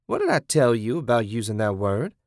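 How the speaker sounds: lightly voiced captor, chiding; scolding captor. Kathy scolding her captive, mild menace.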